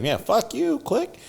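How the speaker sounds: high, curt hang-up; mock brush-off. Friend hanging up when asked to help with a shovel. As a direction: slam down the phone on him.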